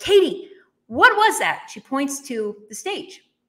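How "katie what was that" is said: mock, raised, almost angry tone. Retelling what the event organizer said, leaning over her, in an almost angry voice. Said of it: "almost in like this angry voice".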